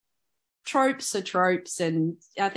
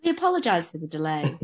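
automated announcement; 2 semitones lower than usual. Pretend. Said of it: "mock automated announcement".

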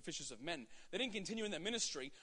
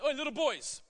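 calling out; 4 semitones higher, 4 dB louder than usual. Retold or imitated. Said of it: "when Jesus called out, he said".

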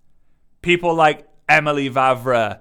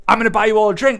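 generous offer; 6 semitones higher, 6 dB louder, faster than usual. Retold or imitated. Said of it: "If I said".

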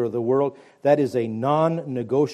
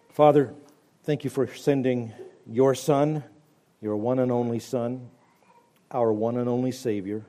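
prayer; 2 semitones lower than usual. Acted.

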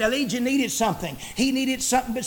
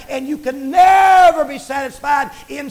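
preaching shout; 5 dB louder than usual. Acted.

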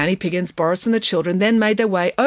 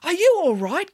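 calling out; 12 semitones higher than usual. Acted. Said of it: "called Derek".

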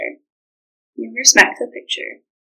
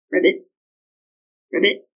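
frog croak; 4 semitones lower than usual. Acted. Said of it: "said the frog".

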